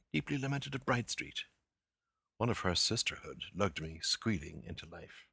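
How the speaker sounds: measured, expressive reading of prose; literary reading. Acted. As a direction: read the passage with relish, savouring each phrase. Reads the Joyce passage aloud.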